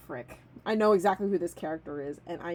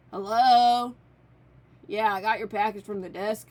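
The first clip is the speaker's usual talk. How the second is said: mellow dreamy hippie; 7 dB louder than usual. Acted. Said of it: "Let me channel my inner Matthew Lillard".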